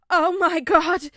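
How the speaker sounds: slow, piercing high scream. A narrator's reading. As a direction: shriek in sudden fright. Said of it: "Ned suddenly screamed".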